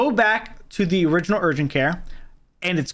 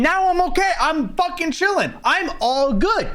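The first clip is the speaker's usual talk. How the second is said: mock relief; 10 semitones higher than usual. Real, not acted. Mocking the doctor's sudden reversal.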